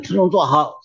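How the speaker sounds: a pastor barking kids to order, half-acted; retold shout. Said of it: "他就跑到后面就大喊一声". (模仿牧师半认真地大喊)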